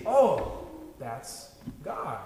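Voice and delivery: marvel, then drop into awe; amazed recognition. Retold or imitated. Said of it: "we say".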